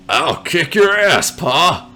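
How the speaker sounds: slow, cheerful friendly threat; chipper. Pretend. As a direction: say the threat sweetly. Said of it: "you say in a chipper tone".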